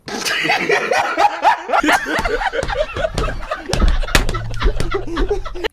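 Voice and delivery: long, high, loud cackle; real laughing fit. Real, not acted. Storyteller cracking up at her own humiliation, laughing hard. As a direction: burst out laughing helplessly.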